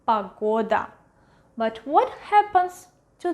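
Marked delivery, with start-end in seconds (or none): 0.0-0.9 "pagoda" with a full O on the stressed middle syllable; "pagoda" modelled with stress on GO; stressed clear O. Shown as a demonstration. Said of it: "pronounce it as O".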